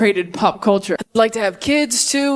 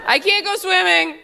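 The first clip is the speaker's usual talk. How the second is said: put-on worried medieval teen; 9 semitones higher, 4 dB quieter than usual. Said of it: "You're like".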